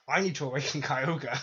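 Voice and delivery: villain line broken by a laugh; giggling through the mock quote. Botching the Archie line and cracking up. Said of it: "Archie's like".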